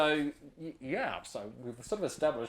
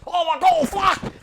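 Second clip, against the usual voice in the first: much higher, louder mock panic; panicked yell; 16 dB louder, slower than usual. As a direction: yell out like the croc's got you. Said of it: "suddenly goes".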